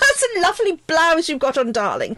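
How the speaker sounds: lightly voiced posh flirt; posh flirty man. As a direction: chat her up in a plummy voice. Role-plays chatting up woman.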